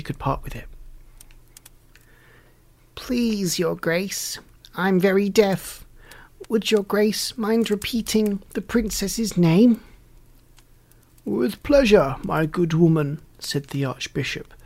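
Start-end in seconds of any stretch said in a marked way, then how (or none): 3.0-9.8 put-on high-pitched old fairy, feigning politeness; wicked old fairy. A narrator's reading. Wicked fairy asks the archbishop to repeat, high crone voice. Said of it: "in the tone of a dry axle". 11.2-13.2 raised voice for deaf ears. A narrator's reading. Archbishop stooping to a deaf old woman's ear, mildly raised voice. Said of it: "stooping to shout in her ear".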